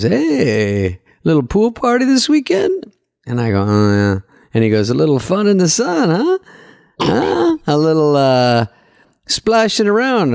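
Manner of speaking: hammed-up German accent, teasing and nosy. German waiter teasing Dana about pool photos, mock German accent. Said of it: "Is this your German accent?".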